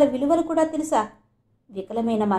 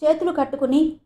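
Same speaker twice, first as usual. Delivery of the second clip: confident and grave; 4 semitones higher, 5 dB louder than usual. A narrator's reading. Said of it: "ధీమాగా గంభీరంగా అన్నాడు బాబు".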